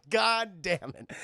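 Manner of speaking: slow, drawn-out curse; understated stunned swearing; acted exasperation. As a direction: let it out slowly in mock dismay. Bystander reacts to the death.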